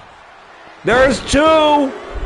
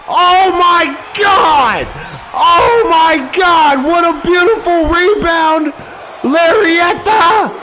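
excited shout; 5 semitones higher, slower than usual. Real, not acted. Excited commentator calling a big move.

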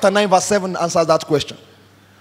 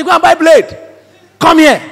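retold angry order, higher and louder; angry command; 6 semitones higher, 5 dB louder than usual. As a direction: order him over in raised-voice anger. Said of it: "I was too angry".

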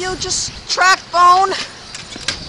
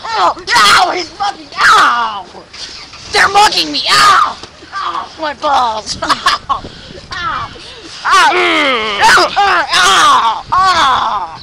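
hammed-up yelps of pain; mock cries while being mugged; pretend pain cries; 2 semitones higher, much slower than usual. Pretend mugging, crying out.

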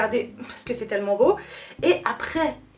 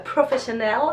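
mock English accent; 2 semitones lower than usual. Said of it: "Quel accent, mais quel accent incroyable".

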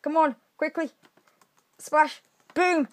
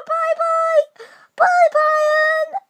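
high laughing taunt, much higher and louder; mocking goodbye; 5 dB louder, much slower than usual. Real, not acted. Gamer waving off a knocked-off rival, laughing and mocking. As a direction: wave him off the map with a cackle.

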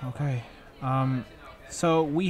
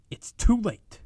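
normal talking voice

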